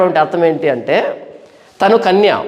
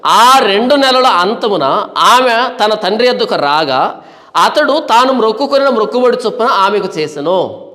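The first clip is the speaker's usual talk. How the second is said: measured, sustained verse reading; scripture reading. Acted. Preacher reads the verse to the congregation, measured scripture reading. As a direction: read the verse out deliberately.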